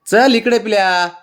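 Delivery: high, slow coaxing call; pet talk. Real, not acted. Owner calling her puppy over, high and slow. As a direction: draw the puppy over gently but loud.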